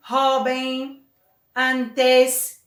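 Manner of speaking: jovem and antes with strong first syllables; stress on penultimate syllable. Shown as a demonstration. Teacher gives examples of graves, first syllables of jovem and antes stressed. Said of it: "tem a penúltima sílaba acentuada".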